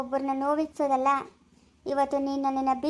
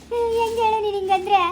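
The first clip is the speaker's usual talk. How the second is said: higher, louder hurt protest; wounded protest; 4 semitones higher, 4 dB louder than usual. Acted. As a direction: protest the husband's rejection. Wife rejected after 35 years.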